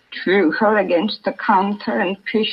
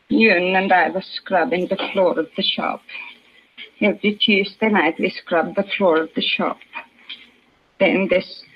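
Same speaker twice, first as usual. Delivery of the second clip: put-on shaken mother in a Swedish accent. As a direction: recount it haltingly, Swedish vowels. Swedish mother recounts robbery.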